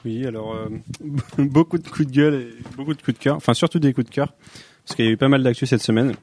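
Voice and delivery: chewing while talking; talking through a mouthful of pizza; mouth full. Real, not acted. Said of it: "je vais te laisser parler la bouche pleine".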